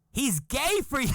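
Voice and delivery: high, loud words through laughter; teasing laugh. Retold or imitated. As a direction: tease him while laughing. Wife laughing teasing husband.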